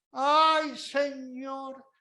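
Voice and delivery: hammed-up cry to the Lord; mock lament to the Lord; mock wail to heaven. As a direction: wail like a self-pitying martyr. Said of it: "pega el grito al cielo diciendo".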